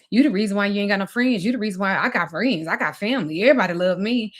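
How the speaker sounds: fast, mildly mocking imitation of an ex; imitated boastful put-down, lightly done; retold taunt. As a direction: rattle off the blame with bobbing pitch, lightly acted. Ex's taunting in retold argument.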